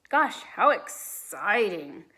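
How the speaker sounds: slow, deadpan sarcasm; unexcited. Acted. Peter mocking his sister's game, slow deadpan sarcasm. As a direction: say it like it's the dullest thing ever. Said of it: "in a very unexcited voice".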